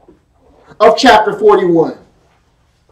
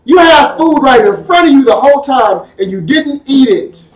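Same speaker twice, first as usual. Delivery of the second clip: shout; 3 semitones higher than usual. Acted. Preacher scolding the crowd.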